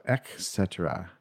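"et cetera" said as EK-SET-er-uh; hard C. Shown as a demonstration. Podcaster trying the common version, "et cetera" as ek-SET-er-uh. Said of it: "a hard C before the second".

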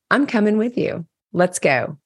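put-on light Dominican New York accent, brisk and sure; a hint of a Dominican New Yorker taking charge; lightly imitated Dominican New York accent, decisive. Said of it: "in her very Dominican New Yorker voice".

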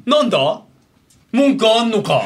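pria galak mengajak ribut. Retold or imitated. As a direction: challenge them like a touchy stranger. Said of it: "俺の印象ね。".

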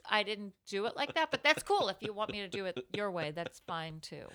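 fake-agreeable, undercutting tone; mock accommodating actor; passive-aggressive actor. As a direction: concede while clearly resenting the note. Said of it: "the passive-aggressive actor thing".

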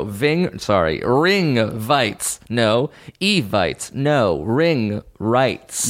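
tripping over Ring Writes, Ving, Vites; stumbling through Ring Writes, swapping sounds; jumbled syllables. Real, not acted. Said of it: "it's a spoonerism".

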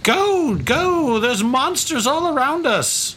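high-pitched urgent cry; panicked woman. Acted. Game master voices woman fleeing monsters in the cart, high panicked cry. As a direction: play a frightened woman pleading to flee, voice way up. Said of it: "She's like".

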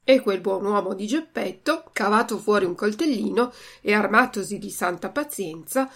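normal talking voice

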